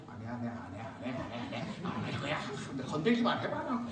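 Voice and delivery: low, muttered stubborn no with a threat at the end; sulky refusal. Retold or imitated. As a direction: act out a sulking holdout. Sulking president voiced.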